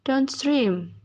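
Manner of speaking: downstream with main stress on STREAM; primary stress on second word. Shown as a demonstration. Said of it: "The primary stress is placed on the second word".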